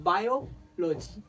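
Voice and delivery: বায়োলজি spoken slowly, syllable by syllable; teacher slowing down on বায়োলজি; slow demo. Shown as a demonstration. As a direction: spell out বায়োলজি slowly for students. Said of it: "এরকমভাবে আমরা অনেক শব্দ".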